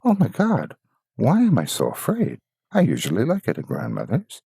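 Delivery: put-on high, anxious young girl; a startled gasp of fear; frightened girl. Girl uneasy in Grandmother's strange parlor, high and anxious.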